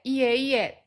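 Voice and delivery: mildly hesitant, humble denial; reserved. Shown as a demonstration. Lowering oneself a little when praised, reserved. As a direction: gently decline the praise. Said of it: "こう遠慮がちに言うこと".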